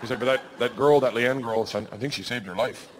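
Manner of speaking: low, understated Minnesotan producer; dry deadpan. Retold or imitated. Producer telling the man what the bear did, dry deadpan. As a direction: deliver it dry and low, unbothered. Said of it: "Real dry".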